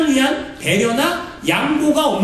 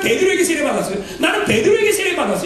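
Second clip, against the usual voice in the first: boastful bragging; 3 semitones higher, faster than usual. Retold or imitated. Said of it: "이렇게 자랑하는 거예요".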